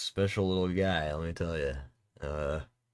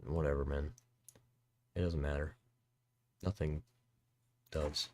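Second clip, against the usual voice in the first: mock gloom; 4 semitones lower, 10 dB quieter than usual. Deadpan nihilist aside.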